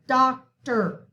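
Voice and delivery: "doctor" ending in a reduced "er", stress on DOC; E R sound. Shown as a demonstration. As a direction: say "doctor" as DOC-ter, the first syllable strong. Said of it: "gives it the sound of E R".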